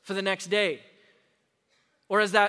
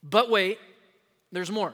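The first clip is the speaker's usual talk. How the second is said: mock TV pitch, hyped then dropped; a light infomercial-host voice; infomercial line; slower than usual. Shown as a demonstration. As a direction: sell it like a late-night ad. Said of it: "You like those commercials?".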